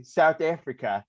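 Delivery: lightly put-on South African accent; name the country in a South African accent; South African pronunciation demo. Shown as a demonstration. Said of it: "as a South African".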